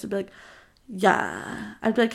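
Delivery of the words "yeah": drawn-out one-word reply; odd boy voice. Retold or imitated. Girl mimicking her crush's small talk, odd boy voice. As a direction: imitate his odd, stretched way of talking. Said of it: "He literally talked like this".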